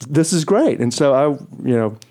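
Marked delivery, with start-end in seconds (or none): 0.1-0.8 pleased thought. Retold or imitated. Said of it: "I thought".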